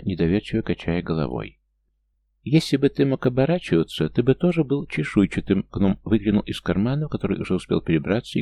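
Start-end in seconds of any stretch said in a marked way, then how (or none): 2.4-5.7 higher, jeering little gnome voice; a tiny gnome taunting from a pocket; mocking gnome. A narrator's reading. Gnome peeking out of the pocket to mock Mark, higher taunting voice. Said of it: "глумливо захихикал".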